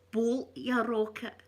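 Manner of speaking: slow, voiced Glasgow ned phrase; Glasgow street accent. Shown as a demonstration. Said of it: "That's another wee Ned phrase".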